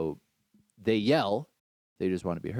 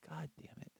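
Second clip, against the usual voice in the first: soft under-the-breath mutter; muttered curse; 7 semitones higher, 21 dB quieter than usual. Retold or imitated. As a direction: grumble it to yourself, barely audible.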